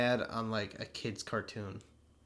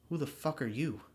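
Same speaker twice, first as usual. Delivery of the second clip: lightly mocked dumb delivery of a movie line; a hint of a clumsy Magneto; stupid line reading; 5 semitones higher than usual. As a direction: imitate an actor botching a serious line. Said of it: "He says it so stupidly".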